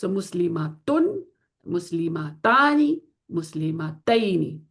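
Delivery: مسلمتن, مسلمتانی, مسلمتینی each said slowly; slow recap of three forms. Shown as a demonstration. Teacher summing up the forms for students, slow. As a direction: run through the forms slowly, one by one. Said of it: "ٹھیک ہے؟".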